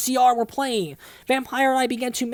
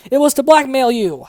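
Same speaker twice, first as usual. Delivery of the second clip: snarky reply; 4 semitones higher, 8 dB louder than usual. Acted. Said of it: "I snarked".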